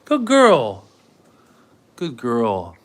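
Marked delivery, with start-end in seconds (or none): 0.1-0.9 much higher, louder sing-song praise; high dog praise. Real, not acted. Owner praising her dog Annie, high and gushing. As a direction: gush over the dog in a high voice.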